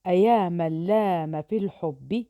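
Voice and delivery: poem recital. Shown as a demonstration. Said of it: "ننظر الآن".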